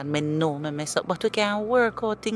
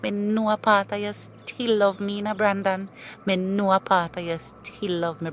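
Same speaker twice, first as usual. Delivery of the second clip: pleading. Acted. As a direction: plead on your knees to get him back. Ex begging to be taken back.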